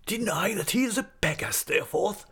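high-pitched, affronted questioning; incredulous cry. A narrator's reading. Headmaster challenges Steerforth's claim, incredulous. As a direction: question him in high disbelief, without shouting. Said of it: "cried Mister Creakle".

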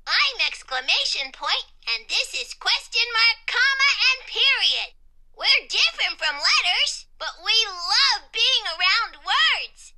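high, loud, exuberant character voice; excited Exclamation Point. A narrator's reading. Exclamation Point introducing family to letters, high excited voice. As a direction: introduce everyone with bursting enthusiasm.

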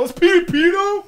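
high, loud mock exclamation; excited. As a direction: announce it with glee. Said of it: "I go".

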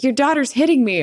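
mock whiny accusation. Stepmom accusing to dad.

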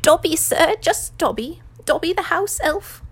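high, loud house elf; humble servant elf, pitched high; high-pitched creature voice. A narrator's reading. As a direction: introduce yourself as an eager elf. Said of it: "in such a high-pitched voice".

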